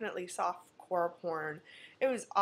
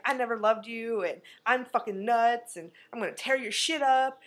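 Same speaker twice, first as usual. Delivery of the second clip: mock furious rant; 4 dB louder than usual. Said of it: "Jenny Schectered on his ass".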